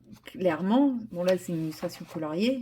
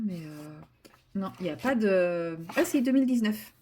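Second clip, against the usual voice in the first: ordinary delivery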